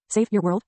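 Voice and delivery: "your" picked out with emphasis; stress on "your". A narrator's reading. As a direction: lean on the word "your". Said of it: "placed particular emphasis on the word".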